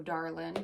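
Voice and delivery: "darlin'" ending on n instead of ng; dropped G. Shown as a demonstration. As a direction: drop the G at the end of "darlin'". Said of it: "I'll drop the G".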